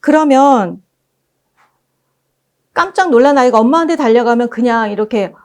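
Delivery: ordinary delivery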